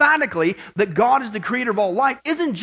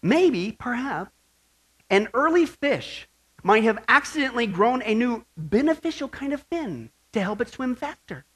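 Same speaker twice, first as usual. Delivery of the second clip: mock quoting; 2 semitones higher than usual. Preacher quotes evolutionists to the congregation with light mockery. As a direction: parody the evolutionists' hedging.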